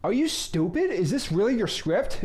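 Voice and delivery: a viewer baffled by the script; incredulous viewer. Pretend. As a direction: play the shocked doubter, pitch jumping up on "stupid". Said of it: "Now, I might be like".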